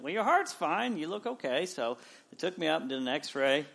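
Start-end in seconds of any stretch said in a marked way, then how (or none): 0.0-1.7 hospital staff reassurance. Retold or imitated. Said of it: "and they're like".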